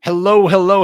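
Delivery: big loud high "hello, hello"; announcer shout. Acted. Host opening the podcast for listeners, loud announcer call. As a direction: belt the show opener like a host.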